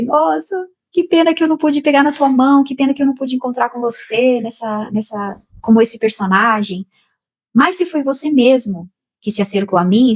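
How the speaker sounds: high, moved voice talking to Divaldo; emotional plea. Retold or imitated. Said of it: "E aí eu falei".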